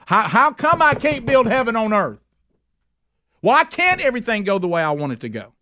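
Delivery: a believer railing at God, building to a cry; indignant complaint. Retold or imitated. Voices a believer raging at God.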